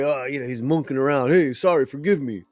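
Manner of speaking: lightly mocking imitation of the man's rambling; mocking homeboy imitation. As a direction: run it on as a mock apology. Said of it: "the homeboy's like".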